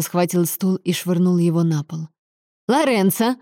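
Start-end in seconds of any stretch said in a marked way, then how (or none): 2.7-3.4 high-pitched alarmed call; restrained cry, raised in pitch. A narrator's reading. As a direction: call out sharply to stop him. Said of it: "закричала Сальватора".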